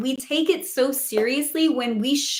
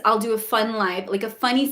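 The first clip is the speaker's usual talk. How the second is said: ordinary delivery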